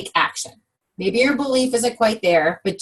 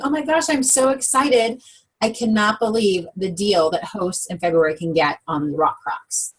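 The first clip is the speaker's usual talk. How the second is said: demonstrating an excited phone pitch, starting bright; mildly acted excitement that settles as it goes. Shown as a demonstration. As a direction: eagerly share a deal with friends, mildly gushing. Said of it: "did you see the tone in my voice".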